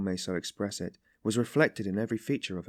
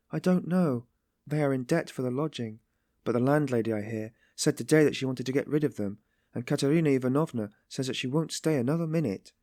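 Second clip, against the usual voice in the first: lightly voiced Sonia, higher-pitched; worried Sonia; 5 semitones higher than usual. Sonia explains the debt for the lodging, worried. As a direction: read as Sonia, a touch anxious.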